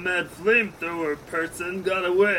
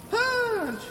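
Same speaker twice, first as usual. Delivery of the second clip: shouted punch. Acted. Hero calls his blow.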